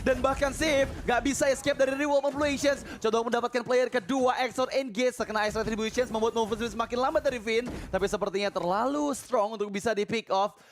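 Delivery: fast, high hype shout-casting; excited play-by-play. Acted. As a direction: call the teamfight like it's a title match.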